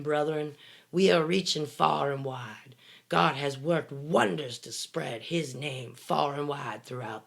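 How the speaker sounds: measured sermon cadence with swelling emphasis; mock preacher reading. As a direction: read it like a pastor addressing the brethren. Reads a preacher's quote aloud.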